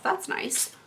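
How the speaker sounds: soft pleased whisper; whispered aside. Real, not acted. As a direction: breathe it to yourself. Aside about powder puff.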